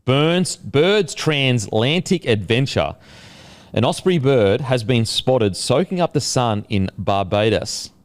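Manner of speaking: measured podcast headline read; news story read. Real, not acted. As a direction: present the odd story like a newsreader. Reads out a weird news story.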